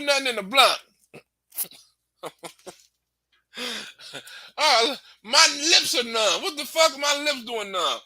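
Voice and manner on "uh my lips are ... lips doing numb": slow, laughing complaint, higher; panicked laugh at numb lips; slowed laughing alarm. Retold or imitated. Mimics numb lips after laced blunt.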